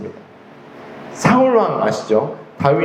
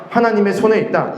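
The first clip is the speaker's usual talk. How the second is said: raised, ringing repeat of 하나님의 손에 있다; louder proclamation; 4 semitones higher than usual. Real, not acted. Preacher proclaims to congregation, raised and ringing. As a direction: cry it out to the congregation. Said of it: "repeats declaration louder".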